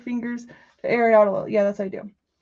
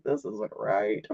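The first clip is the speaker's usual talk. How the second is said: low, slow mock voice; deep mock voice; 12 semitones lower, 6 dB quieter, slower than usual. Talking to herself about a cursive name, low and slow mock voice. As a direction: drop way down and drag it out.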